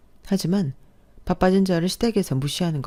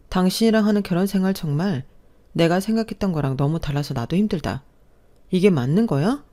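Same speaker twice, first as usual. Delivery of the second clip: appalled wife. Acted. Wife appalled by her husband's words, indignant. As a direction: call out how absurd this is.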